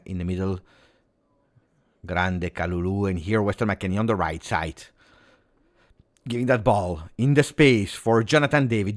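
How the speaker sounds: ordinary delivery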